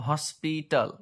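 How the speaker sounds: হসপিটাল broken into three parts, hos-pi-tal; syllable by syllable. Shown as a demonstration. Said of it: "তিনখানা বিভক্ত". (হসপিটাল তিন ভাগে ভেঙে ভেঙে)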